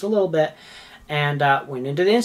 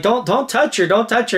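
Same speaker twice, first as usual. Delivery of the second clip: urgent warning; 6 semitones higher than usual. Retold or imitated. Retold urgent warning to staff.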